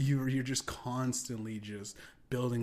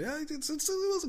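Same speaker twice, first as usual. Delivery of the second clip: a hint of Chris stumbling, higher; higher awkward reply. Chris Rock stumbling through the awkward moment, higher. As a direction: fumble the line, higher. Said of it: "He said".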